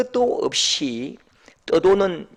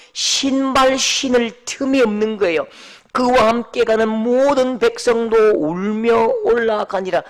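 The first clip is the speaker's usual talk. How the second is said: slow, loud, lamenting Bible reading; solemn scripture reading; 4 semitones higher, 4 dB louder, slower than usual. Acted. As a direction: read the verse slowly with grief.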